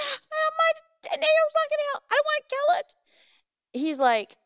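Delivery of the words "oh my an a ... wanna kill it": very high-pitched squeaky wail; mock-frantic squeal, far above usual pitch; retold protest in a tiny high squeal; panicked protest. Retelling her panicked protest to husband.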